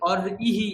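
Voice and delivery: "অরিহি" broken apart after the r; separated vowel. Shown as a demonstration. Teacher shows student the wrong split, vowel detached. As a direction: split "অরিহি" into or and ihi, i on its own. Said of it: "হ্রস্ব ইকার কি আলাদা করে বলছি".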